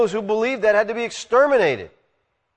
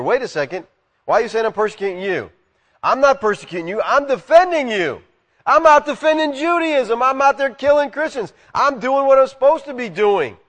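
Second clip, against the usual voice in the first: indignant Paul; 6 semitones higher than usual. Retold or imitated. Preacher voices confused Paul.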